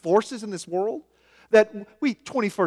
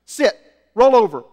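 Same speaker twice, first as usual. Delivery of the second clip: ordering a dog; 5 dB louder than usual. Retold or imitated. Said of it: "you see the dog".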